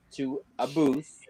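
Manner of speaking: "booth" stretched slowly, ending on a th sound; drawn-out booth. Real, not acted. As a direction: say "booth" long and slow, with a th at the end. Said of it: "It is that you say it that way".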